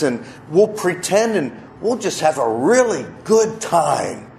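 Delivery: put-on slow, sweet little child asking to play; little kid's voice. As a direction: coax like a small child. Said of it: "put on my best little kid's voice".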